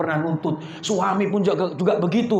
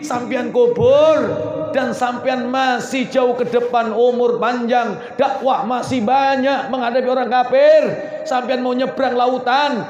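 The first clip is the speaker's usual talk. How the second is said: tearful plea; 2 semitones higher, 3 dB louder than usual. Acted. Khadijah's dying wish, tearful.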